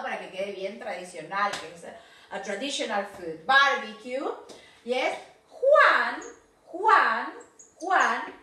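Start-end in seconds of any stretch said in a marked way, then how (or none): 5.5-8.4 Juan called louder, rising each time; teacher calls out names on the picture; calling out. Shown as a demonstration. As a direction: call the name to get attention. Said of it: "calling attention to the picture".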